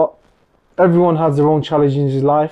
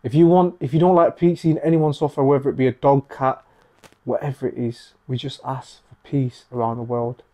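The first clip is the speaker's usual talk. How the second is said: prayerful and sincere. Real, not acted. Leading a prayer for peace.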